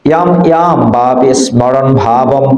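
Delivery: "ইয়াম" with a y onset and closed m; "স্মরণ" with the sm cluster sounded; Sanskrit pronunciation. Shown as a demonstration. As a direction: recite "ইয়াম, ইয়াম" as yam yam, evenly. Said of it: "উচ্চারণ শেখো তোমরা".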